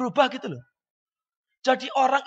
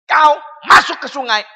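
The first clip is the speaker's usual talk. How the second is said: mock army order, louder; military commander; 3 semitones higher, 5 dB louder than usual. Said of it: "kalau komandan berkata".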